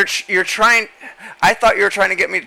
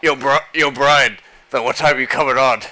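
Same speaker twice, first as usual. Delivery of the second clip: bro impression; 4 semitones lower than usual. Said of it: "It'd be like".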